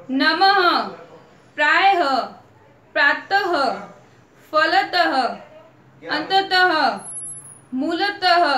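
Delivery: each word read out loud and slow, final h sound clear; careful word reading. Shown as a demonstration. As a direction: read each word for the class, ending every visarga with a clear h. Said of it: "जब यहाँ पे book के अंदर लिखा हुआ है". (विसर्ग वाले शब्द ज़ोर से, अंत में ह की ध्वनि के साथ)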